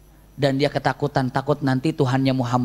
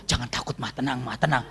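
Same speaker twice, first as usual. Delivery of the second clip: imitated hushed reassurance; 7 dB quieter than usual. Husband calms his wife in the dark, softly reassuring. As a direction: soothe her under your breath.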